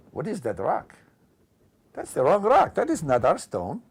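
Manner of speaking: rising to a loud, high outburst; a holy man indignant at the wrong stone; outraged turban guy. Retold or imitated. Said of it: "record this line that says".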